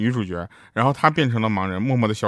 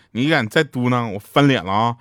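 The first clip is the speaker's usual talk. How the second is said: 嫂子发狠; 3 dB louder than usual. Retold or imitated. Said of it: "嫂子瞪了一眼我哥说".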